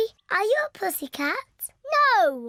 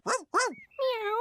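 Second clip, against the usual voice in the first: cat meow; 3 semitones higher, 4 dB quieter than usual. Pretend. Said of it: "Tigers don't say woof woof".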